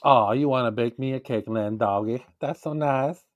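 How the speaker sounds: put-on Southern accent; easygoing Southern accent. Shown as a demonstration. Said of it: "I put a Southern accent on that".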